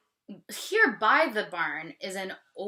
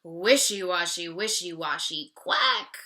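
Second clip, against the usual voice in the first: louder mock duck quack; duck moaning; 5 dB louder than usual. Teacher voices the duck, a mild mock moan. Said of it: "the duck moans".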